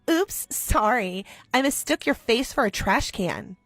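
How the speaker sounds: slow, sarcastic mock apology; fake sorry. Bully taunting after throwing a banana peel, sarcastic. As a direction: drip false innocence.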